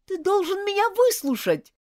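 loud, high, desperate plea; almost yell it, insisting; near shout. Acted. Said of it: "почти выкрикнула она".

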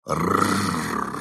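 playful monster growl; mock growl. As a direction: growl like a pretend beast. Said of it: "затряс ими и добавил".

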